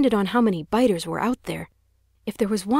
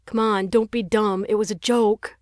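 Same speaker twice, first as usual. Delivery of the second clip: amused; 3 semitones higher than usual. Acted. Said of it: "still sounding amused".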